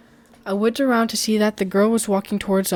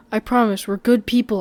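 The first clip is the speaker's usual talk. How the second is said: raised voice, calling across the room; 2 semitones higher, 5 dB louder than usual. Acted. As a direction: call out to reassure her. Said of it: "I called out".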